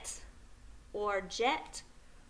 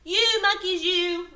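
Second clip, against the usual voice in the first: louder, higher telling-off; storybook scolding; 7 semitones higher, 4 dB louder than usual. Acted. Peddler scolding monkeys who took his caps, acted scolding. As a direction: scold them like naughty creatures. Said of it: "he spoke to them".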